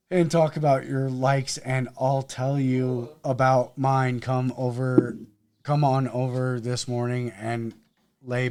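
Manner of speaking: low, even public-radio read; NPR voice. Pretend. Co-host reading a Craigslist ad aloud, NPR voice. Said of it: "get my N P R voice going".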